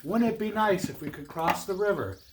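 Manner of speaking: lively, projected read-aloud voice; animated storyteller; storybook narration. A narrator's reading. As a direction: read it like a picture book to children. Reads a tale to children.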